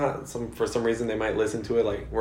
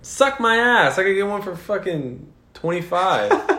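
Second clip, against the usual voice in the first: mock outrage; 6 semitones higher, slower than usual. Real, not acted. Friend scoffing at the massage price, high mock outrage. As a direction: squeal it in playful disbelief.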